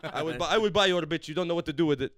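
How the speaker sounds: loud, jokey mock Arab accent. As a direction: boast like a macho uncle. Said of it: "Arab accent".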